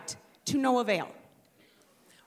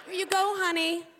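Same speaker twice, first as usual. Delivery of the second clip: higher, sugary mock sweetness; sweet mommy; 8 semitones higher than usual. Mother to daughter in class, higher mock-sweet voice. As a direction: hand it over all sweet.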